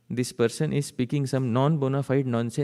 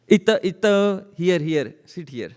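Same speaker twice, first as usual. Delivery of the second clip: eager welcome; 6 semitones higher than usual. Acted. Dreaming Krishna welcoming gods.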